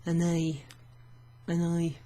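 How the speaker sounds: ANNOY said with a French accent. Shown as a demonstration. Teacher likening un œil to annoy, French accent. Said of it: "give it a French accent".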